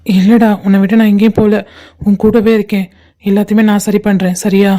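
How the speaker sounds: low, comforting promise; tender reassurance. Acted. Friend promising never to leave his buddy, tenderly reassuring.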